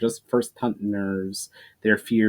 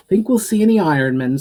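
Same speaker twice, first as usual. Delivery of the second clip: teasing chuckle; 8 semitones higher, 6 dB louder, faster than usual. Acted. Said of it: "with one last chuckle".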